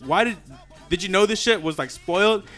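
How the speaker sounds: indignant confrontation. Retold or imitated. Confronting his homie over the spoiled milk, indignant.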